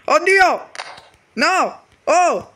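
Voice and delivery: high, frantic begging to be let go; shrill-pitched desperate cries; panicked pleading. Acted. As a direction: squeal in panic as they grab you. Boss captured, begging to leave.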